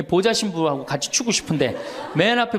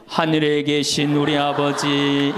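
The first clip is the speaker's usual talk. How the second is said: prayer intoned; 5 semitones lower, slower than usual. Retold or imitated. Prayer starts on the bus mic.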